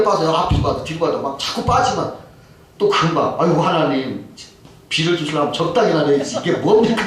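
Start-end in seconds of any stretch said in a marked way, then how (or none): 3.4-7.0 retold complaint to God, building in pitch; acted exasperation, rising toward the end; mild grumbling. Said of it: "막 또 불평을 또 하더라는". (하나님께 불평하는 말투)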